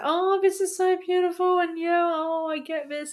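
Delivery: high-pitched mock gushing. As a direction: swoon over something beautiful. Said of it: "and it was just like".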